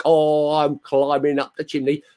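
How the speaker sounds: high, put-on mock Cockney; Dick Van Dyke. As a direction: do a bad film-star Cockney accent. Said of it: "You can do the Dick Van Dyke".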